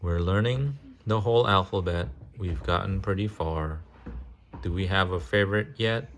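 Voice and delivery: sing-song picture book reading; reading to children. Acted. Parent reading a train picture book to a child, sing-song. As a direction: read the rhyme gently to a little one.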